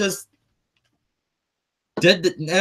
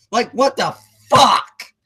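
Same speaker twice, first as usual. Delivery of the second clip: drawn-out outraged question; slow, incredulous fury; what the hell disbelief; angry disbelief; 3 semitones higher, 4 dB louder, slower than usual. Real, not acted. Angry rant about ticket prices.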